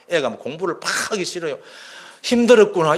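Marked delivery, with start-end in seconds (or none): 2.2-3.0 louder, higher caring reply; empathetic reply. Shown as a demonstration. Mother answering her tired student, caring and louder. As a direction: say it out so the child feels heard. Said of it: "이 말 한마디에".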